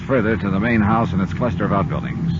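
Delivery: measured radio narrator over music; understated private-eye narration; story narration. A narrator's reading. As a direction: tell it like a detective recounting the case.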